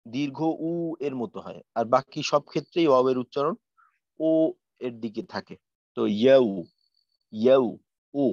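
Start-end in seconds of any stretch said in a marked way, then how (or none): 6.2-8.2 ইয়াউ said "yaw", gliding to a rounded o; soft rounded waw. Shown as a demonstration. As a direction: demonstrate ইয়াউ with lips rounded toward o. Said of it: "গোল করে নরম ভাবে উচ্চারণ করা".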